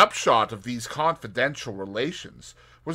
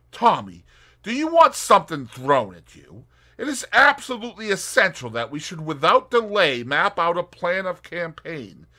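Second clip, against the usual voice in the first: Tuppence voice; 8 semitones higher, 8 dB louder than usual. Acted. Tuppence threatening playfully.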